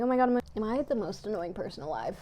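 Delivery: fast, tumbling self-conscious question; rushed self-mockery. Vlogger catching herself talking too fast, rushed. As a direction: race through it, mock-exasperated with yourself. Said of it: "I'm talking so fast".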